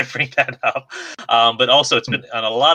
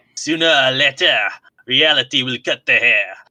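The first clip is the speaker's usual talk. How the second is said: ridiculous, exaggerated, over-the-top put-on French accent. Speaker reads a quote aloud just for fun: over-the-top French accent. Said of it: "I'm going to try doing a French accent while I'm saying them".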